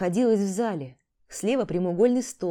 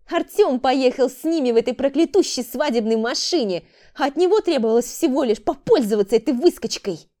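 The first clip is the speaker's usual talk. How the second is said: громкий высокий злой крик; бросить обвинение с яростью; злость; 6 semitones higher, 7 dB louder than usual. Acted. Рита в гневе обвиняет. (Рита зло кричит о брате)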